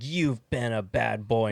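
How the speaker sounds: slow, drawn-out scolding; a hint of a dominatrix, taking her time; lightly voiced dominatrix. Acted dominatrix from the film.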